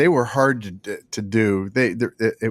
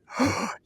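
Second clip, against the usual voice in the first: a quick, breathy gasp of delight; imitated gasp; 5 dB quieter than usual. Retelling the voice artist's reaction, a light mock gasp. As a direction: gasp like she's thrilled to be asked. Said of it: "And she went".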